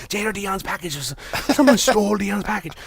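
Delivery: high mock gossip voice; whisper-gossip like scandalized neighbors; gossiping old folks. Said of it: "All these older people like".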